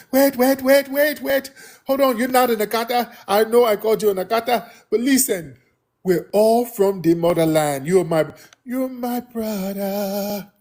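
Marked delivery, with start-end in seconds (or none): 0.1-7.9 much higher, wheedling voice; mock backpedalling. Host mimicking people who now want to belong, high wheedling voice. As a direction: play someone suddenly eager to claim kinship.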